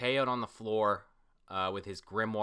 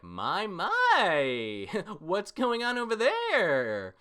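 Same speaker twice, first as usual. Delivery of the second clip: higher, slower, teasing with a laugh; teasing chuckle; 10 semitones higher, 4 dB louder, much slower than usual. Acted. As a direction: tease them, laughing through it. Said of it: "And Vanessa's like".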